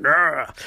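answering imitated growl; hammed-up squabble noise; mock growl. One man growls back at the other, mock growling.

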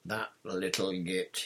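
calm, slow and even; understated calm put-down. A narrator's reading. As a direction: say it slowly, unruffled. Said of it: "he said calmly".

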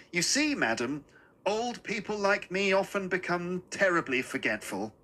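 put-on courteous old man, mildly apologetic; a hint of a genteel old man asking for help; little old man, pleading politely. Little man's plea in story.

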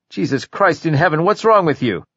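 sudden panic over the cell phone; alarmed outburst. Acted.

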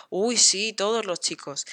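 dry ironic tone. Retold or imitated. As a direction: sound sarcastic, not sincere. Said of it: "Estaba siendo irónica".

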